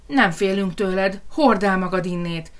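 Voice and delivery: defiant piglet cry; brave squeal. Acted. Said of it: "visította a bátor Röfi". (enyhén visító bátor malac)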